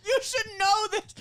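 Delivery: high, wailing mock scolding; hammed-up exasperated doctor; imitated yelling doctor. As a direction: scold in a high comic yell. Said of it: "she was yelling at me".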